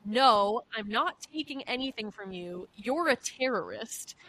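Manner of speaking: hint of a delirious patient yelling; mock angry patient. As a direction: play the paranoid patient snapping. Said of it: "she told me".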